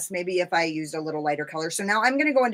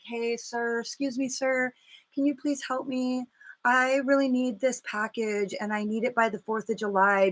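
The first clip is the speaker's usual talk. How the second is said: pleading politely; 4 semitones higher than usual. Retold or imitated. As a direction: sweet-talk the mailman for help. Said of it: "and I was like".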